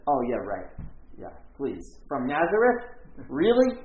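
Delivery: mock the hick town out loud; scoffing disbelief. Nathanael scoffing at Nazareth.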